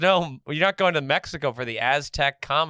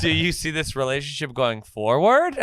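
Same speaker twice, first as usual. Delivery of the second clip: mock Southern belle, laughing.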